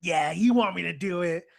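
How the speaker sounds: deadpan insistence, firm and loud; straight-faced. Retold or imitated. Washu looks straight at Tenchi and insists, straight-faced. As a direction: state it straight-faced, as settled fact. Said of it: "straight face, like".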